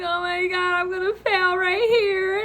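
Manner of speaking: high, panicky inner voice; freaking out. Retold or imitated. Student in own head fearing failure, freaking out. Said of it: "I started freaking out in my head".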